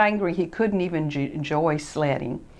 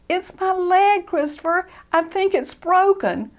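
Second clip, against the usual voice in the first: hurt Ted; 12 semitones higher than usual. Acted.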